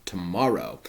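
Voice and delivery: loud commanding start, then steadier; Capulet. Acted. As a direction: brush the delay aside. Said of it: "Capulet says".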